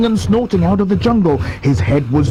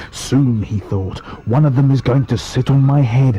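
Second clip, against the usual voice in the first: gloating crocodile. Acted. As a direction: relish the thought of dinner.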